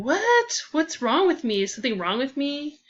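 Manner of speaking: baffled and a little hurt; asking herself what's wrong with her; shocked disbelief. Acted. Inner thought after being ignored.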